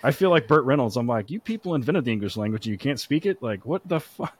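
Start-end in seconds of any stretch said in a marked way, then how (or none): 1.3-4.3 higher-pitched comic disbelief; mock exasperation. Host teasing a British guest about her English, mock exasperation. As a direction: complain in playful, baffled indignation.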